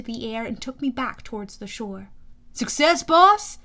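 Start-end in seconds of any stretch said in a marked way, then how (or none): 2.5-3.6 Blackjack voice. Acted. Blackjack the pegasus asks hero.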